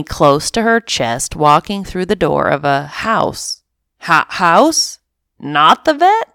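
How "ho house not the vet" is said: stammering, astonished question; surprised disbelief. Acted. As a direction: pitch jumps up in disbelief. Cat surprised at new house.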